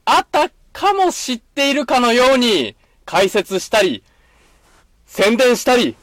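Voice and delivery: slow, showy corner announcement; announcer voice. Acted. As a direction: announce it like a radio host.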